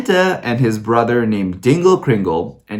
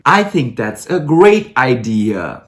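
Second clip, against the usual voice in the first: slow, mock-sincere endorsement; sarcastic approval; slower than usual. Reviewer mocking the movie's Santa origin story, sarcastic approval. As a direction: pretend to love it, drawing it out.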